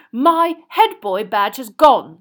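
slow, loud, heated complaint; high, accusing outrage; rounding on him. A narrator's reading. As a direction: turn on him indignantly. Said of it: "rounding on Harry".

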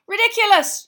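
high, forceful yell; loud incantation shout; yelled spell. A narrator's reading. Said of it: "yelled Dean".

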